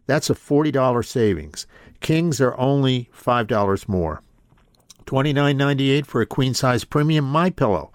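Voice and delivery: brisk pitchman read for pillows. Acted. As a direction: sell it like a sponsor spot. Host reads a sponsor ad.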